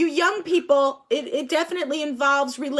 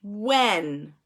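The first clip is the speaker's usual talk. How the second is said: very slow, drawn-out sentence starter; very slow prompt; much slower than usual. Shown as a demonstration. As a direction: hold each word, inviting an answer. Teacher drawing out sentence starter.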